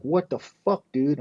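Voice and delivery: high-pitched, indignant outburst; retold alarmed protest. Man protesting to his dealer after knife threat, alarmed protest.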